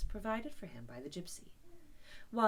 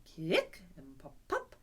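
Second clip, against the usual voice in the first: stifled snorts; 4 semitones lower, slower than usual. Acted. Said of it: "sounds resembling stifled snorts".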